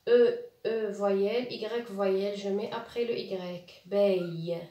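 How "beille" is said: "Beille" with the final Y sounded as a "ye" glide. Shown as a demonstration. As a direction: end "Beille" on a clear "ye". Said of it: "le Y se prononce ye".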